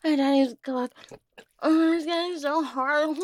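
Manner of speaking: lightly voiced breathy little girl, teasing; a hint of a playful baby girl; coy baby girl voice, barely shifted. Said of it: "my baby girl voice".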